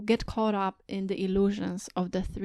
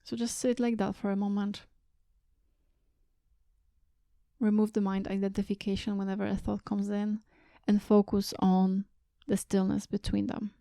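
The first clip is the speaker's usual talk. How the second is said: guided meditation. Real, not acted. Teacher guiding listeners to sit and watch their thoughts, calm meditation voice. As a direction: guide them gently inward, leaving space between phrases.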